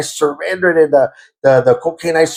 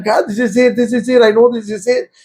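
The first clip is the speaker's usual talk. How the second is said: crying out; 5 semitones higher than usual. Retold or imitated. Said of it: "man, I'm crying".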